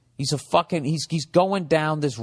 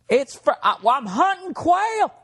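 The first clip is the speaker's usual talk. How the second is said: mock redneck. Mocking a redneck gun owner.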